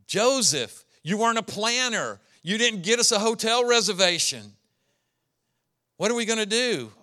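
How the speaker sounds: a touch of exasperated nagging; scolding Joseph. Acted. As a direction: tell him off for not booking.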